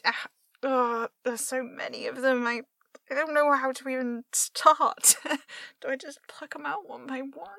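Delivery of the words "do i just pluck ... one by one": whispering. Acted. Muttering to self, whispered.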